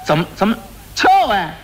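sharp high yell at the apprentice; shouting jump. Acted. Quack doctor yelling at his dim apprentice to run, sharp shout. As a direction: bark the order to run.

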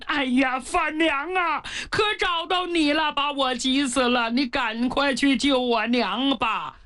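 tearful pleading. Acted. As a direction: beg her desperately for help. Pang Hu begs for help. (带哭腔的憨厚恳求)

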